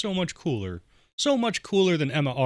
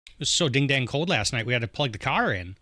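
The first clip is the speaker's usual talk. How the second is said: folksy upper Midwest demo; upper Midwest accent; 3 semitones higher than usual. Shown as a demonstration. Player gives an example sentence, upper Midwest accent. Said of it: "the upper Midwest accent".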